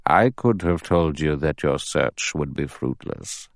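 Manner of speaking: a hint of a grave old judge addressing the men. Narrator voices the judge.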